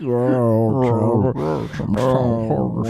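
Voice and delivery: put-on slow drawn-out Southern accent. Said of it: "sound like a fat Southern guy".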